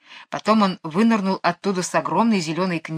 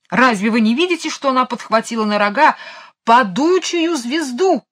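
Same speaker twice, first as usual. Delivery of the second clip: excited exclaim; 5 semitones higher, 4 dB louder than usual. A narrator's reading. King shows courtiers the star, high and excited. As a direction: stretch the last words in wonder.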